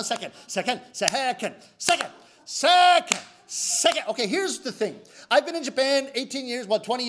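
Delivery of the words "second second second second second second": exasperated shouting. Retold or imitated. Frustrated customer yelling the word at the clerk, exasperated shout.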